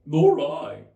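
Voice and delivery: shrill high hare squeak; a very high, loud hare; March Hare voice. A narrator's reading.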